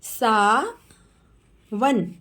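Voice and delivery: सावन stretched very slowly; slow teacher model of सावन. Shown as a demonstration. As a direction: draw सावन out sound by sound. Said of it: "teacher models name slowly".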